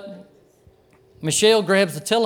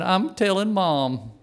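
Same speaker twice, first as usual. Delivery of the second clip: lightly imitated whine, drawn out slowly; little whiny voice; slower than usual. Little sister threatening older sister, mildly whiny drawn-out voice. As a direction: stretch it into a mild childish threat. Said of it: "Jill's little whiny voice saying".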